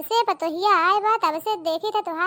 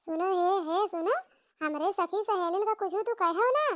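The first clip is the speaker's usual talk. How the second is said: threatening village aunt. Acted. Aunt threatens the young bride.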